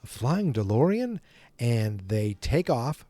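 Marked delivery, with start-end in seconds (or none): 0.0-1.2 high-pitched mock astonishment; hammed-up startled disbelief; Biff. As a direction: act out gawking at the impossible. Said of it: "And he's like".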